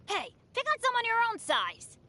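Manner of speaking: high-pitched, spirited challenge; indignant challenge. Acted. Adventurer stands up to an enemy, indignant challenge. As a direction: call out the bully, pitched high. Defending others in battle.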